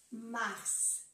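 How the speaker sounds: "Mars" with R and final S both sounded; all letters pronounced. Shown as a demonstration. Teacher repeating the French month, every letter of "Mars" pronounced. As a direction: let the closing S of "Mars" be heard. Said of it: "se pronuncia todas las letras aquí".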